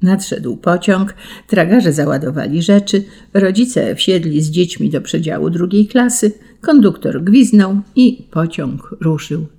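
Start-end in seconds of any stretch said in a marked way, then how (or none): none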